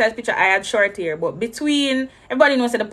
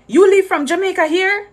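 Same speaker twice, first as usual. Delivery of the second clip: higher, puzzled put-on officer voice; imitating the officer; 10 semitones higher, 5 dB louder than usual. Officer quizzing the Jamaican traveller, in a higher put-on voice. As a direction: play the doubtful airport officer, pitched up.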